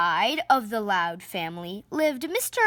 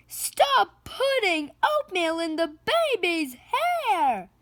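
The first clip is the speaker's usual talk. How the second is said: put-on a mother's high yell at the kids; 7 semitones higher than usual. Ma Loud yelling at the kids about the baby's hair, high yell. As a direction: yell it across the noisy house. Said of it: "Ma Loud yelled".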